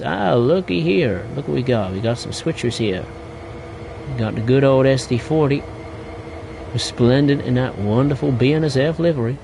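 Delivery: a light, cheesy American railfan voice; a bad American accent, played for fun; terrible American accent. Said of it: "a terrible attempt at an American accent".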